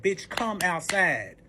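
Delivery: slow, drawn-out demand; retold call, word by word; calling someone out. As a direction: stretch every word out. Beating on windows and doors.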